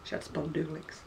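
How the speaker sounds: spondulics said spon-DOO-lix instead of spondylitis; quiet, fond misword spondulics; mum's word spondulics. Retold or imitated. Vlogger quotes her mum's mangled word, quiet spondulics. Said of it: "That was spondylitis".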